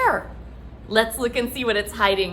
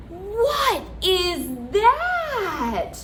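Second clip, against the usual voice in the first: put-on reading to a toddler; slower than usual.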